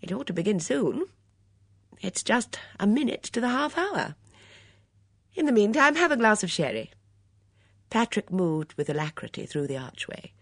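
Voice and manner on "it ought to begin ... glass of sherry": cheerful hostess, voice lifting; higher, lilting and hospitable. A narrator's reading. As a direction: offer it with easy good cheer. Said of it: "she said cheerfully".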